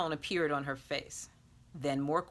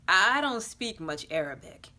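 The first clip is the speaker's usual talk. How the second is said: blurted out; 5 dB louder than usual. Acted. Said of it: "he finally spat out".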